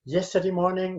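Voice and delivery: "yesterday morning" held level, no rise or fall; level tune. Shown as a demonstration. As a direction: keep "yesterday morning" on one even note. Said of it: "without going up, not down".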